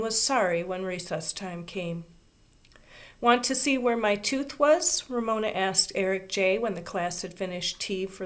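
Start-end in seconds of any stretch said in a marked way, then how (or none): 3.2-5.0 higher, louder eager question; eager child. A narrator's reading. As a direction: proudly show off the gap. Ramona eagerly shows her tooth.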